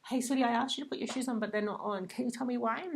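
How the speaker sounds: put-on patient parent asking her child why the shoes aren't on; grounded and sweet. Shown as a demonstration. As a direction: ask kindly, really wanting to know. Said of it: "that tone of voice was pretty grounded, pretty sweet".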